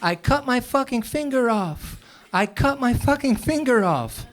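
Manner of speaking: high mock panicked yell; retold panicked screaming; imitated scream. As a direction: imitate dad yelling in pain. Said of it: "he started screaming".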